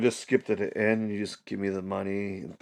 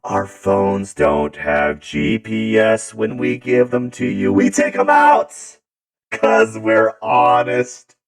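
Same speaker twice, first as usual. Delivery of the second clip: mock ad pitch; 6 dB louder, slower than usual. Mock Apple corporate pitch.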